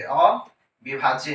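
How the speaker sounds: अविभाज्य stretched long, very slow; drawn out slowly. Shown as a demonstration. Teacher stressing अविभाज्य to the class, slowly. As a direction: drag out अविभाज्य so it sticks. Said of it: "परमाणु क्या है".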